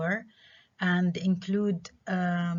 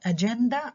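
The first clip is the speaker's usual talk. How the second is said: أجندة with the middle syllable stressed; stress second-to-last syllable; 4 semitones higher, much faster than usual. Shown as a demonstration. Teacher showing penultimate stress, أجندة stressed mid-word. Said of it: "ستريس على المقطع ما قبل الأخير".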